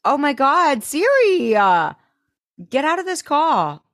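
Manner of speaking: high, loud flustered outburst; flustered panic. Real, not acted. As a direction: frantically shoo the phone away. Panicking at Siri interrupting.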